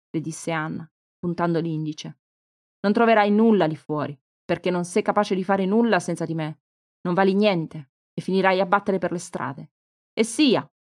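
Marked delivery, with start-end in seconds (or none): 2.8-9.7 louder, cutting mother's scorn; stern threat. Acted. Mother belittles leaving daughter. 10.1-10.7 higher, louder defiant cry; shouted defiance. Acted. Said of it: "urlò Cristina in risposta".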